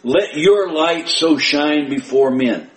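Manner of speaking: slow, emphatic scripture reading, leaning on "your"; deliberate and pointed, straight to you; direct personal address. Acted. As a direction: say it as though looking the listener right in the eye. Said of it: "Read that as though Jesus is looking you right in the eye".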